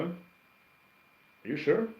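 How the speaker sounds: slow, high, drawn-out sceptical question; teasing, drawn-out are you sure; mock doubt. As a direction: stretch it out to tease the viewer. Doubting a viewer's comment.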